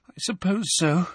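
small, high, upset voice; tearful. A narrator's reading. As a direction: agree unhappily, close to tears. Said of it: "who looked tearful".

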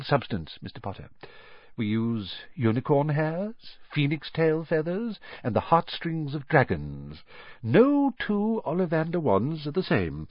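a hint of a strange old shopkeeper savouring memories; eerie old wandmaker. Old wandmaker recalls the mother's wand, lightly voiced and dreamy. Ollivander explains wand cores.

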